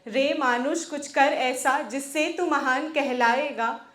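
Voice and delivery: rhythmic, declaimed Hindi verse; poem recitation. Acted. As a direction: recite it as a rousing poem, pausing between lines.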